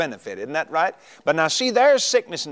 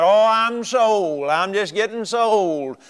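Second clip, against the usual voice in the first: mock old complaint. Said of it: "talking about how old you are".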